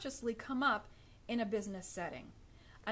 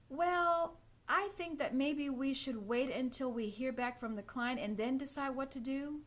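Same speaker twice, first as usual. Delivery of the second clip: hesitant, unsure; 2 semitones higher than usual. Shown as a demonstration. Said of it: "You see the lack of confidence in that?".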